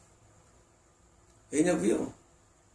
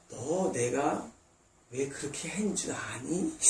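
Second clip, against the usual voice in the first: very slow, softer, drawn-out question; gentle voice of God; 2 semitones lower, 6 dB quieter, much slower than usual. Retold or imitated. Preacher voicing God answering a praying believer, slow and soft. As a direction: let God ask it patiently, almost tender.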